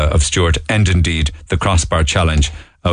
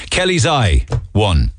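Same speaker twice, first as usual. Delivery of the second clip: bingo caller; 2 semitones higher, slower than usual. Pretend. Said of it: "I wouldn't mind doing a bingo call".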